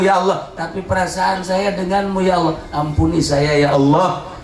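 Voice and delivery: surrender to God in repeated falling phrases; pleading prayer. Acted. Prayer voiced within the sermon.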